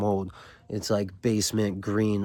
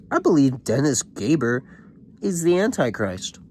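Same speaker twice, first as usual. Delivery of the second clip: mock-grand declaration, pitched up; popping off; 5 semitones higher than usual. Student airing crazy thoughts to the room, mock intense. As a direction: proclaim it like an overexcited bookworm. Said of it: "he's just popping off on them".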